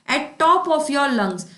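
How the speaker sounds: very slow, each word spaced out; slow idiom read. Shown as a demonstration. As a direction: announce the idiom slowly for the class. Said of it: "teacher announces next idiom". (बहुत धीरे, शब्द-दर-शब्द)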